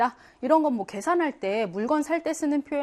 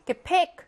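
이렇게 팩 with the accent on 팩, raised pitch; unstressed prefix, then hit 팩 in 이렇게 팩; stress on final syllable; 5 semitones higher, faster than usual. Shown as a demonstration. Teacher showing an unstressed prefix, stress lands on 팩. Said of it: "강세를 받지 못하는".

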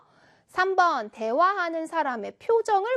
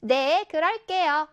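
slow, confident answer drawn out clearly; slower than usual. Shown as a demonstration. Seulbi replying to the crossing guard's morning greeting, confident. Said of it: "자신감 넘치고 큰 목소리로".

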